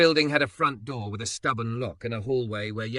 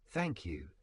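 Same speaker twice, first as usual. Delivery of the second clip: soft, heartfelt thank you; sincere thanks; 3 semitones lower, 6 dB quieter than usual. A narrator's reading. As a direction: say it like you truly mean it. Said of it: "like a man who meant it".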